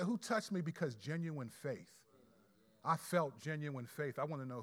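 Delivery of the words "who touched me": gentle question. Retold or imitated. Preacher shows how Jesus truly asked, gently. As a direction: ask it kindly, wanting to know. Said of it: "No, he said".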